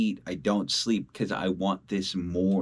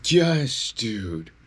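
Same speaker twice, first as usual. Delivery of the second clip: louder, higher cheer of joy; loud excited yes; 3 semitones higher, 3 dB louder than usual. Real, not acted. Celebrating a DM from his hero, loud excited cheer. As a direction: yell it out like great news just landed.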